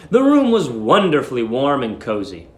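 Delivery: ordinary delivery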